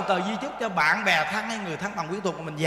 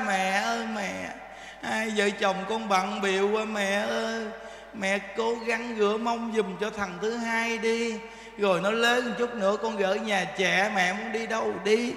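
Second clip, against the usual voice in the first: pleading son; 5 dB quieter than usual. Retold or imitated. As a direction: beg mother softly. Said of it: "Nó nài nỉ mình đó". (giọng con nài nỉ mẹ, nhỏ nhẹ)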